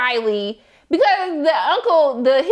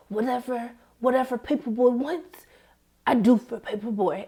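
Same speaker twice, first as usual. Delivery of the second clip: put-on kid's devoted voice; 3 semitones lower, 6 dB quieter than usual. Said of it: "the kid was like".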